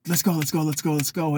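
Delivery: rapid-fire urging chant; fast pace. Retold or imitated. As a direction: rattle it off, hurrying someone along. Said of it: "They want the fast pace".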